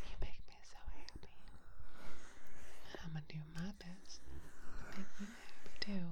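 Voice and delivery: tender reassuring whisper. Acted. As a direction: soothe them gently, close in. Comforting a loved one, whispered.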